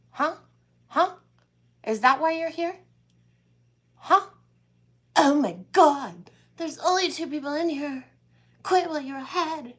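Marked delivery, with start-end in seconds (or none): 4.0-4.3 mocking huh. Real, not acted. Needling a chat troll. 5.2-9.7 exasperated. Real, not acted. Exasperated at a chat troll.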